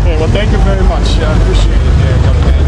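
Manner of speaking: shouting loudly over live music. Real, not acted. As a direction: yell it over a loud band.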